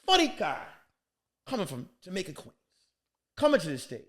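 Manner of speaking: a hint of an emcee calling the next act; mock MC intro. Host bringing the comic to the stage, lightly voiced emcee. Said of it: "he says".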